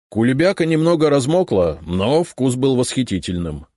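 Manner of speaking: high, loud earnest reporter; reassuring reporter. A narrator's reading. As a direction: assure him the pie was great. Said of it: "заверил меня Черницын".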